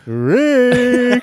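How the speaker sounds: loud, high call of a name across the office. Retold or imitated. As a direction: shout the name up high to grab his partner. Imitating Shelley calling out.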